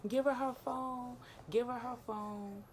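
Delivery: high, slow urging; friend pleading. Retold or imitated. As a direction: plead with him to hand it over. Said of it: "she just like".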